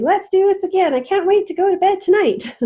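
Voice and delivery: high, loud and eager; bubbling over to do it again; excited. Acted. Beanie telling Nani she can't wait for bedtime, excited. Excited child after success.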